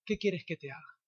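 softly voiced Jesus; gentle, quiet question. Jesus looking at the blind man, asking softly. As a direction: drop to a hushed, tender ask.

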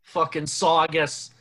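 put-on Boston accent. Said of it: "Are you trying to do a Boston accent right now?".

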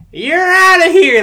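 loud, high, drawn-out "outta here"; umpire ejection call. Retold or imitated. Umpire tossing a muttering player, big yell. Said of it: "and the ref was like".

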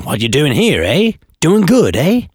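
light mock Canadian with rising "eh"; Canadian speech imitation. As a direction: imitate Canadians, lifting each "eh". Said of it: "So they'd say something".

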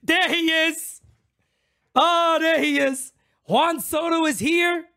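thrilled streamer spotting the new star; excited. Real, not acted. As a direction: cheer him on like he just walked in. Excited greeting star arrival.

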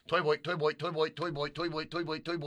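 put-on "toy boat" slipping into an Australian-like "toy boy"; accidental Australian sound. Shown as a demonstration. Host testing the tongue twister, Australian-sounding slip. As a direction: repeat it with an Australian-like vowel. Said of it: "It sounds like an Australian guy saying toy boat".

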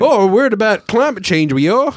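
high mock Australian accent; hammed-up Australian delegate's accent. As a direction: address the room in broad Australian. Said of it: "The Australian delegate starts talking".

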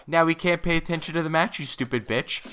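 high, heated rant building to a yell; angry rant. Real, not acted. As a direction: let the annoyance boil over. Ranting at interviewer.

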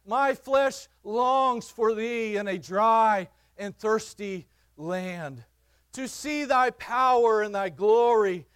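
slow, solemn psalm reading; scripture reading. Acted. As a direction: read the verses slowly and reverently.

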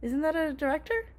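unvoiced whisper. Real, not acted. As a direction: whisper it softly. Whispered aside.

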